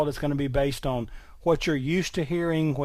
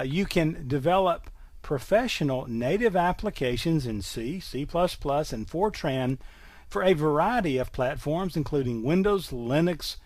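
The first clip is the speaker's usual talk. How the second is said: salesman voice. Shown as a demonstration. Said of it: "that's my best salesman voice".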